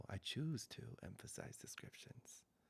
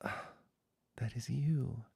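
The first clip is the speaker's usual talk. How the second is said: whispered; 3 semitones higher, 6 dB louder, much slower than usual. Acted. Pointing to the listener's true nature.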